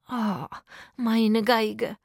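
a fond, drawn-out sigh. A narrator's reading. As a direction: sigh it out lovingly. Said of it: "seufzte Itzik".

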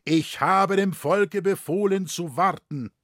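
high, loud voice of authority; commanding voice. A narrator's reading. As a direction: carry over the din like a commander. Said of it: "mit Gebieterstimme den Lärm übertönend".

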